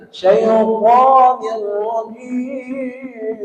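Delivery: "syaitanir" said very slowly, with a heavy nir; wrong thick nir. Shown as a demonstration. Teacher shows students what not to do. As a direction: drag the nir heavily, as the mistake. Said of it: "Itu salah itu".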